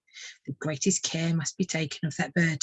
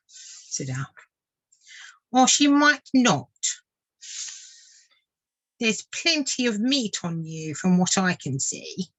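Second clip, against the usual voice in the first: warning water vole; 3 semitones higher than usual. Acted. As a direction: warn a naive friend darkly. Vole warns the swift.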